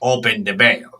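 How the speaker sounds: put-on deadpan line in a Hispanic accent; put-on Hispanic accent, unhurried. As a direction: imitate a Hispanic man's accent. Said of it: "in this Hispanic accent".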